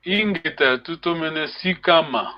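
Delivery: measured model of where the accent falls in "sikama"; "tutomene sikama" carefully stressed, falling at the end; showing the accent. Shown as a demonstration. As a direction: demonstrate the stress in "sikama" for a learner. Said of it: "is the accent on the second syllable".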